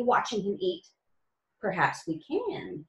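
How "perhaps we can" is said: slow, hushed hint of a secret; mysterious. Tum Tum hinting a plan to Nutmeg, mildly mysterious. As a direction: draw it out, teasing a secret. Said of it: "he replied mysteriously".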